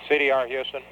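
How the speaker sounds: crackly radio transmission; over a space radio link; astronaut radio. Real, not acted. Air-to-ground call from Houston.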